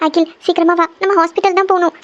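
anxious urging. Acted. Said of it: "எதுக்கு அழுதுட்டு இருக்கீங்க?".

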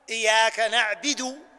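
"نعبد" said slowly as "نعبِد" with the ba in kasra. Shown as a demonstration. Teacher shows the mistake of a kasra on the ba. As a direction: say "نعبد" with an i vowel on the ba. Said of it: "بكسر الباء".

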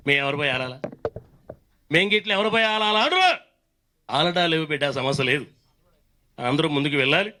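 lightly voiced Telangana politician; KCR. Leader turning a song into a speech, light impression. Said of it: "ఈ పాటను కేసీఆర్ గారు పాడాలి".

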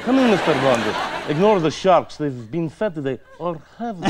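hammed-up arch-villain welcome; Bond villain. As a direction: toy with your guest, savouring the threat. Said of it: "be the bad guy who sat there with the cat".

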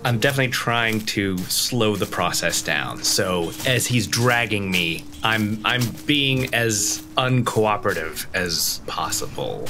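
normal talking voice

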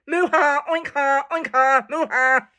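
moos and oinks each punched into a ha; mock laugh built from animal calls; animals' last laugh. Cow and pig having the last laugh, animal-call laughing. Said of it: "they had the last laugh".

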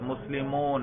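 مسلمون repeated with a long "-oona" ending; demonstrated case ending. Shown as a demonstration. Teacher repeating the example for students, demonstrated ending. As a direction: softly draw out the "oo" in مسلمون. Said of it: "میں صرف تلفظ کے ذریعے آپ کو بتلا رہا ہوں".

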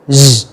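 "z" as a buzzing ZH; big Z. Shown as a demonstration. Teacher introducing the big Z, buzzing ZH. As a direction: voice a long "zh" for "z". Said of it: "nó là âm giờ lớn".

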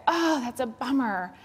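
empathetic. Shown as a demonstration. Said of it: "You stop and you say".

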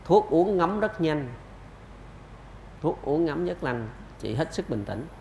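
slow, deliberate reassurance; calm reassurance. Retold or imitated. Doctor retelling his answer on medicine timing, slow and reassuring. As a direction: spell it out slowly to calm a worried parent. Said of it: "tao nói vậy nè".

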